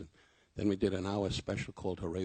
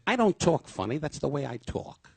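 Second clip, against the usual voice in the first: high, loud mock protest; imitating Don insisting on his voice; indignant Don; 6 semitones higher, 7 dB louder than usual. Don defending how he talks, mock indignant. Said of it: "And he said".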